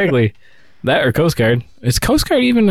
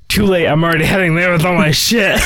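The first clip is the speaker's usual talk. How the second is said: laughing; 5 semitones higher than usual. Retold or imitated. Imitating friend quitting.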